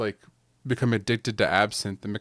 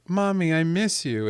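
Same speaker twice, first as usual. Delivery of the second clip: imitating little boy; 8 semitones higher than usual. Son missing his mother at bedtime.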